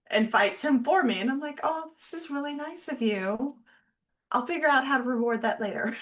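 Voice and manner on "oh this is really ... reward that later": sugary sarcastic gratitude; sarcastic thanks. Retold or imitated. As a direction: thank him through clenched sarcasm.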